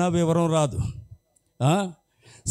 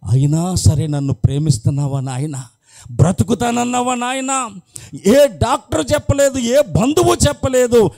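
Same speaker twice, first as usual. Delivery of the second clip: weeping prayer; 3 semitones higher, 3 dB louder than usual. Retold or imitated. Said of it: "దొల్లి దొల్లి ఏడుస్తుందట".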